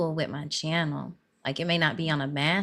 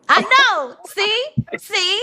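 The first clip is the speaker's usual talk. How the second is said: high and loud, playful; excited; 9 dB louder, slower than usual. Real, not acted. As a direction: squeal it out, caught in the act. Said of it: "this is where I space out".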